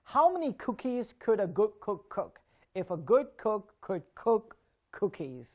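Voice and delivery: "How many cookies could a good cook cook" with crisp k, slowing at the end; tongue twister. Shown as a demonstration. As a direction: say it deliberately, with every k in "cookies" and "cook" puffed. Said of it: "look at the first tongue twister".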